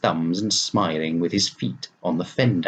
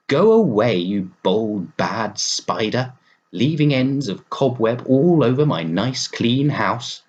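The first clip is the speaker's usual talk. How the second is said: scolding; 3 semitones higher than usual. Acted. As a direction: chase the bad spider out of the house. Scolding the spider out.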